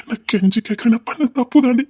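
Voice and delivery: urgent, imploring confession; pleading. Acted. Husband owning his mistake to his wife, pleading. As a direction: beg her to forgive you.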